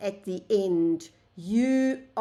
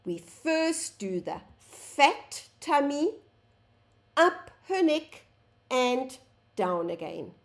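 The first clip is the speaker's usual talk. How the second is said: slower stroke demo; 4 semitones higher than usual. Shown as a demonstration. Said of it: "Let me show you again".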